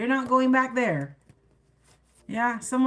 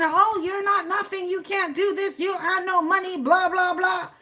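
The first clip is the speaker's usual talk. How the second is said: a light mocking voice, higher; mocking a critic; 7 semitones higher than usual. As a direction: sneer out the put-downs. Mocking someone's put-downs.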